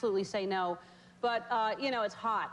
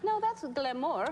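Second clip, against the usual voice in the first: mock French accent; 2 semitones higher, slower than usual. Shown as a demonstration. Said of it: "I was trying to do an accent just now".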